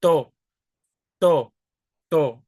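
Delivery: to with the air blocked, no puff; unaspirated T. Shown as a demonstration. Teacher isolates the Spanish T sound. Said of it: "I'm kinda blocking that air".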